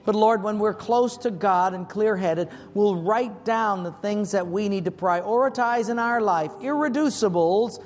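earnest public prayer with deliberate pauses; measured, heartfelt plea to God; closing prayer. Real, not acted. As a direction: lead the congregation in prayer, phrase by phrase. Leads closing congregational prayer.

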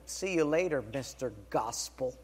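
mildly cynical imitated jibe; cynical little twist. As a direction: toss it off with a slight sneer. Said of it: "with kind of a cynical little twist".

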